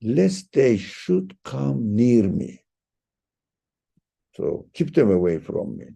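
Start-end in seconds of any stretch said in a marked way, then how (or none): 0.0-2.6 slow, weighty "lest they should come near me." with stress on "lest"; emphasized. Shown as a demonstration. Teacher stressing "lest they should come near me." slowly for the class. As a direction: lean on "lest" and stretch the phrase. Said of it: "emphasizing it".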